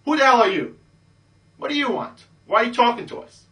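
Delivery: put-on high, loud, snotty hot girl brushing you off; bitchy girl. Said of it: "one of the hot ones says".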